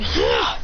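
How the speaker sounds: airy, voiceless "ah"; breathed-out mock battle cry; acted attack cry. Character jumps out yelling.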